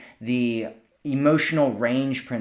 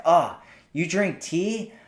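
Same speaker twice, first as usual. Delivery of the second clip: mock dismay. Shown as a demonstration. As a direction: tease him, as if his tea is a dealbreaker. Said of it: "you're just playing with him".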